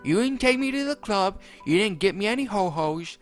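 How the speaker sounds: high, angry spat rant; Jeffy spitting it out. Acted. Jeffy blames Mario after killing Rosalina, high and angry. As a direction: spit the blame at him. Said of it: "Jeffy spat".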